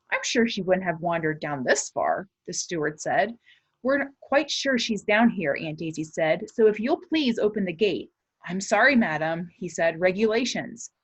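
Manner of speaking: lively chapter-book reading to a class; story read aloud. Acted. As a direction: read it to the kids with suspense. Reads the novel aloud.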